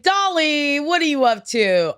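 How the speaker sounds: high, excited call to a star; starstruck fan. Acted. Acting a fan talking to a star, excited high call. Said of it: "You're like".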